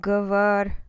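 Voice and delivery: Говор said loud and cut off sharp; Говор, stressed and loud; stem said alone. Shown as a demonstration. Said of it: "no vowel".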